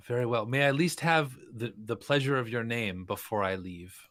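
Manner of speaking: loud, high polite request; mock courteous. Meng asks the rude alchemist her name with mock courtesy. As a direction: ask with exaggerated courtesy. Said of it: "Meng's going to say".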